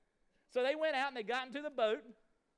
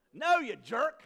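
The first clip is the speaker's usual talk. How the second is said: mock rude retort; 11 dB louder, slower than usual. Imagined rude answer to Jesus.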